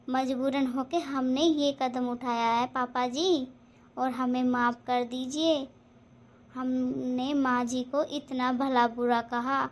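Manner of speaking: daughter-in-law softly begging her father-in-law's pardon; apologetic. Acted. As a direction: plead for forgiveness humbly.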